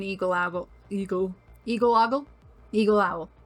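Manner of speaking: stumbling, fumbling, tongue-tied tangle of words. Host reads out a list of animal selections, tongue-tied, stumbling over words. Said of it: "My mouth does not want to make words today".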